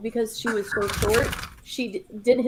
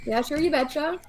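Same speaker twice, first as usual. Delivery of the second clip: put-on Minnesota accent; 4 semitones higher than usual.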